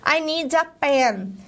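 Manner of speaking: slow, careful English line; slow demo English. Shown as a demonstration. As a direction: say it slowly for students. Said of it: "falei pra minha teacher".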